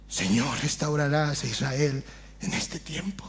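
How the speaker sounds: whispered plea; whispered prayer. Acted. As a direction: pray it under your breath to the Lord.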